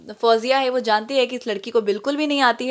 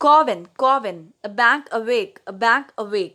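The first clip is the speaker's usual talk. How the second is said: teacherly drilling; much slower than usual. Retold or imitated. Teaching Malay phrase by repetition.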